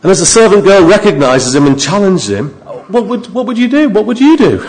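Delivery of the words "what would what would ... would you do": laughing question. Real, not acted. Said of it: "preacher laughs, asks congregation".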